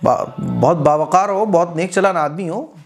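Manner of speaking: mock praise with a rising lilt; acted tongue-in-cheek compliment; sarcastic taunt. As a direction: praise as if jeering at a do-gooder. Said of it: "इस तरह से तंज के तौर पर".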